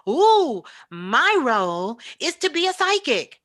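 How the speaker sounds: hammed-up thrill at a new role; playful parody of a proud beginner; mock excited.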